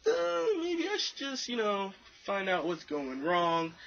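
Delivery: high, slow retold fretting; mock panicking. Retelling his panic at the convention, high mock fretting. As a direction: draw it out high, as imitated panic. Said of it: "I'm panicking".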